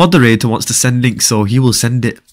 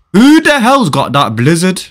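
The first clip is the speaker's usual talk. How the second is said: high, louder, drawn-out demand; annoyed call-out; 5 semitones higher, 4 dB louder than usual. Real, not acted. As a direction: call out the culprit, stretching it slowly. Annoyed call-out during play.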